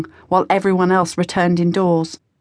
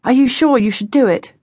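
anxious; 5 semitones higher, 3 dB louder than usual. A narrator's reading. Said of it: "John said anxiously".

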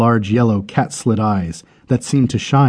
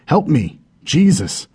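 higher cry to the sky; 5 semitones higher than usual. A narrator's reading. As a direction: call upward for rescue.

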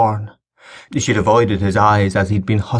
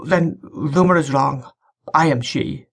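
put-on young bride's voice; 6 semitones higher than usual. The bride states who she is.

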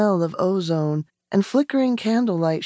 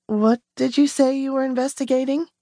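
a higher, careful question; asked carefully; 5 semitones higher than usual. Acted. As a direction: ask it warily, feeling your way. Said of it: "she asked carefully".

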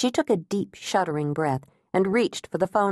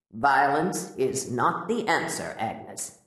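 a lightly lowered, soft doctor's voice; gentle therapist asking, a bit softer; Doctor Garvin gently probing, softer and lower; calm therapist; 5 semitones lower, 3 dB quieter, slower than usual. A narrator's reading.

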